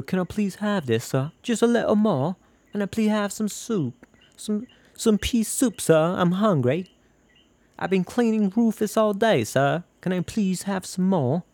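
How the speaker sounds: high-pitched, pleading hungry underling; humble begging. Acted. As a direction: plead upward like a starving little beggar. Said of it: "humiliating yourself to have it".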